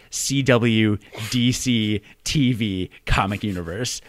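slow, stumbling ad-copy read; awkward slow read. Shown as a demonstration. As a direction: drag out the clumsy copy with distaste. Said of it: "That was awful. My mouth hurts".

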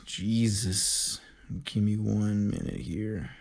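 cracking, strained voice. Real, not acted. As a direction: voice breaking, trying to cover it. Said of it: "playing it off 'cause my voice cracked".

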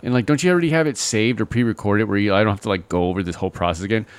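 exasperated caller. Retold or imitated. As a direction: beg them to skip ahead.

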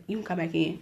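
low, hushed voice; mock hushed invitation; imitated whispering. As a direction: say it softly, like keeping a secret. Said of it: "Why you whispering".

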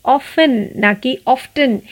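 first often as ofen, second often with a sounded t; often, not oft-en. Shown as a demonstration. Teacher contrasts often without and with the t. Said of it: "लोग अक्सर गलत pronounce करते हैं".

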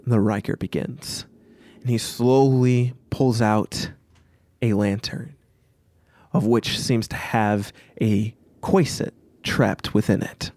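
measured, deliberate scene setting; game master narration. A narrator's reading. Game master describing the needle to players, measured narration. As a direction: narrate with pauses between phrases.

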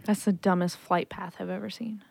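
whispered aside. Real, not acted. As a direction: hush it under your breath. Whispered aside about flight.

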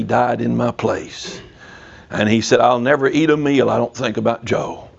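understated, low-pitched retold testimony; solemn confession. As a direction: lightly voice a grateful survivor, low and sincere. Voicing the saved soldier's solemn reply.

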